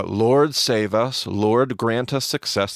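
each phrase lifted and called out; emphatic quote. Shown as a demonstration. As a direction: ring it out like a plea. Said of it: "so we have this".

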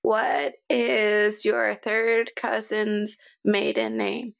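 slow, deliberate questioning; suspicious interrogator. Acted. Cha-Cha checking for body snatchers, slow interrogation. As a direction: draw each word out like an interrogation. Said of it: "interrogates people to".

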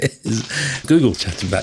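laughing. Real, not acted. Still laughing at assistant.

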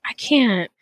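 whispered, worn-out give-up; defeated whisper. Retold or imitated. Stuck in the toilet paper line, whispering in defeat. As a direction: breathe it out, beaten by the queue. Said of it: "I was like".

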